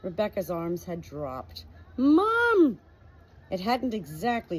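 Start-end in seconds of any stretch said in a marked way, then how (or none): 2.0-2.8 high, loud cry of dismay; loud exasperated cry of Mum; exasperated shout. Acted. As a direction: blurt it out, fed up. Rebecca's dismayed outburst.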